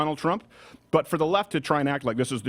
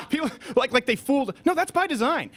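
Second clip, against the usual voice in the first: laughing disbelief; 10 semitones higher than usual. Real, not acted. Laughing at the clip's claim.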